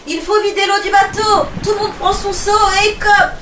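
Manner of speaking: high, loud commands; captain rallying the crew to bail out water; urgent orders. Acted.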